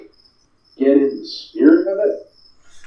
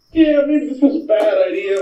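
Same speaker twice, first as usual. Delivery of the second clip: nervous townsfolk; 10 semitones higher than usual. Acted. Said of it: "the townsfolk are like".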